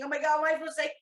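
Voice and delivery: high, loud flustered cry; mock panicked blurt. Acting a sub who forgets the safe word, panicked. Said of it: "call as their safe word without thinking".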